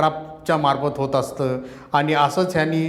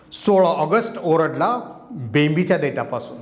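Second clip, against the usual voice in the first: impassioned protest poem, rising and falling; poem recitation. Acted. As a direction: declaim it like a rally poet. Poet recites his poem.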